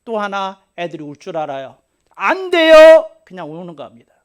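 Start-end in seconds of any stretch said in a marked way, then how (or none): 2.1-3.1 높고 크게 떼쓰는 아이 울음소리; 아기처럼 빽 울어 젖히듯. Retold or imitated. (아이처럼 크게 떼쓰며 우는 소리)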